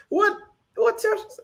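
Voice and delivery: high, laughing question; drawn out, laughing words; real laughter. Real, not acted. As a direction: ask it through a giggle. Laughs while reading the chat.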